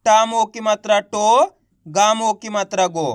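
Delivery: teacher's chant joining ओ to each letter, as in को, चो, नो; name letter and मात्रा, then hold the joined syllable को, चो, नो; spelling-out demonstration. Shown as a demonstration. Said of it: "इस ओ का उच्चारण जोड़ देना है". (हिज्जे करके को, चो, नो को खींचकर बोलना)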